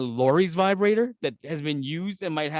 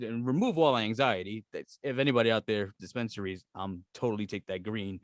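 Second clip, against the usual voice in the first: mock sponsor plea; 8 semitones lower, 7 dB quieter than usual. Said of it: "mock ad to dispensaries".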